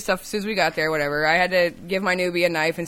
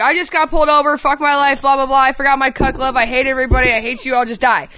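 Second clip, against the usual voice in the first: re-enacted kitchen rant, rattled off; retold griping tirade; pissed-off rant; 3 semitones higher than usual. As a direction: rant to nobody in particular, mildly heated. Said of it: "I'm ranting in the back".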